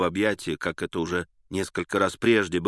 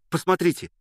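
higher excited appeal; eager call; 9 semitones higher, faster than usual. A narrator's reading. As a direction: urge the listener to look. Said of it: "кричал он, обращаясь ко мне".

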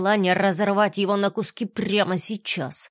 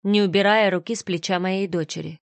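plain reading voice

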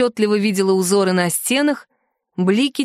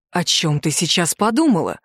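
insinuating, restrained fury; 5 semitones lower than usual. Acted. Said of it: "вкратчиво спросил он, явно сдерживая свою ярость".

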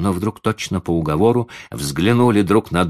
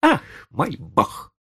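very high, exasperated lady; boiling over; 3 dB louder than usual. A narrator's reading. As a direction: lose patience in a high-pitched voice. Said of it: "вскипела дама".

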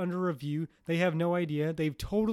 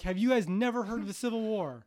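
mock incredulous; 4 semitones higher, 5 dB louder than usual. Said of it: "And I'm like".

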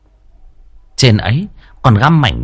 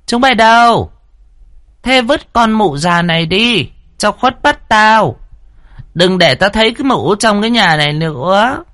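a cruel mistress ordering servants to throw out the nurse; harsh calling out; 13 semitones higher than usual. A narrator's reading. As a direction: shout the servants over with cold orders. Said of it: "gọi với sang nhà ngang".

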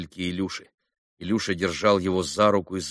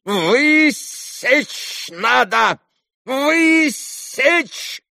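stamping, high furious yell; furious shout; 5 dB louder, much slower than usual. A narrator's reading. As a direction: roar it out in a rage. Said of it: "Затопал было ногами ... взбесившийся доктор".

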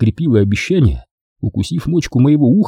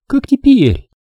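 put-on higher young woman's voice, teasing; Дженни; 3 dB louder, slower than usual. A narrator's reading. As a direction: play the girlfriend, sweet and teasing. Jenny voiced. (нежная игривая Дженни)

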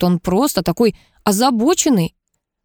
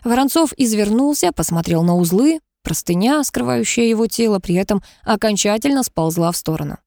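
usual speaking voice

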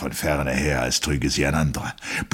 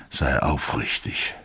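pleading; slower than usual. A narrator's reading. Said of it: "flehte er".

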